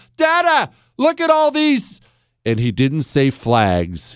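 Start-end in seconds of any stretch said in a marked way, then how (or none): 0.2-2.0 mock, very high, all-out loud child's shout. Speaker recalls a child standing up among a crowd, retelling a child's loud shout. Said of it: "as loudly as you can possibly imagine".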